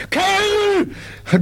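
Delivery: high, thundering roar. Acted. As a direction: bellow it like an outraged sergeant. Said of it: "donnert er los".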